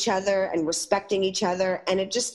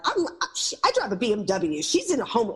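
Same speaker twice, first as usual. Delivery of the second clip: snooty attitude; 3 semitones higher than usual. Retold or imitated. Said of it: "That kind of attitude".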